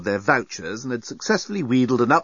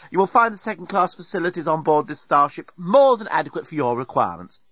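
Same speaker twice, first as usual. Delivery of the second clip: haughty, higher robot voice; snotty robot; 6 semitones higher than usual. Acted. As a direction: talk down to them like a snooty machine. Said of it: "deskbot's withering insolence".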